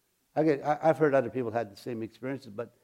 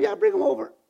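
retold eager reply. Retold breezy reply on phone.

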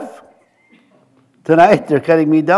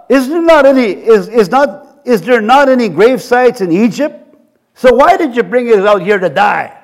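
mock-sarcastic question, pitched slightly up; lightly acted sarcastic challenge; 2 semitones higher than usual. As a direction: ask it with pointed sarcasm. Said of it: "They're being sarcastic".

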